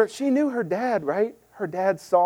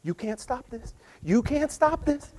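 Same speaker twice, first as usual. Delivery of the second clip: mock performer number; 4 semitones higher, 5 dB quieter than usual. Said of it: "he starts doing this number".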